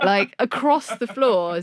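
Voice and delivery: cracking up while telling it; giggling through the end of the story; laughing. Real, not acted.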